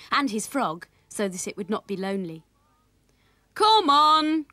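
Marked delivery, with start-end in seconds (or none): 3.5-4.5 loud, higher-pitched hurry-up call; raised-voice summons from a father; father crying out. A narrator's reading. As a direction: call out urgently to get them moving. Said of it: "cried Willie's father".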